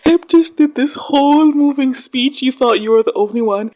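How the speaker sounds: high, loud, incredulous outburst; amused disbelief. Real, not acted. Viewer reacting to Hep's moving speech, incredulous. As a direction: voice shoots up in laughing astonishment.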